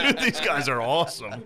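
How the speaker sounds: high, loud excited fan; mock fanboy. Friend mocking fans of the Zetas, high excited gush. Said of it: "everybody was like".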